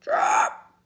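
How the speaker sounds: put-on very high squeaky baby cry; a giant playing baby. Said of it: "said the huge baby".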